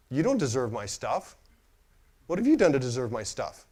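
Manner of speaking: stern rebuke. Retold or imitated. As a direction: lay down the law to him, deliberately.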